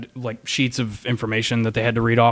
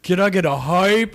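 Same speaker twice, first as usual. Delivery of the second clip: imitated streamer; 4 semitones higher than usual. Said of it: "When people are downloading, like".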